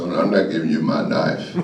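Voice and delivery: low, deepened voice of defiance; bass in the voice. Retold or imitated. Boy refusing coach the switchblade, putting on bass. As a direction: drop into a mock-tough bass. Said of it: "got a little bass in my voice".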